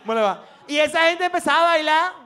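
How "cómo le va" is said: put-on shy kid's greeting. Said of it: "Y uno".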